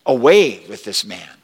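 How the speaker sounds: loud crowd outcry; crying out. Acted. Preacher voicing the crowd demanding Jesus go, loud outcry. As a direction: hurl it like an angry mob. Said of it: "They all cried out".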